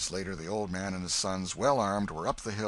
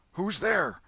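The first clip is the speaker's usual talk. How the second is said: loud high call from a window; called challenge; 10 semitones higher, 6 dB louder than usual. Acted. Welshman calling from the window, wary. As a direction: call out sharply into the dark.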